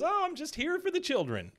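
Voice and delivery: high, falsely modest coo; imitating self-satisfied modesty in a high voice; mock humility. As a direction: swoop up high, playing the humble heroine. Peggy plays humble heroine.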